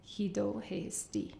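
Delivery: hido hesti slow, syllable by syllable; staccato. Shown as a demonstration. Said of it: "I'm gonna read them syllable by syll-, syllable by syllable".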